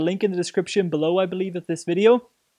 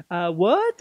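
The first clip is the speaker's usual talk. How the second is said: lightly imitated French accent; puzzled question with a hint of French. French waiters baffled by the order, imitated French accent. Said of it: "In their French accent".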